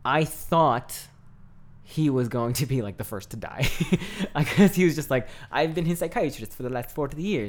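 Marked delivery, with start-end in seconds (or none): 5.5-7.5 a light, badly faked German psychiatrist accent; terrible German accent. Fan imitating the movie psychiatrist, weak German accent. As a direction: lightly put on a German doctor's voice for "I've been his psychiatrist". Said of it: "That was a terrible accent".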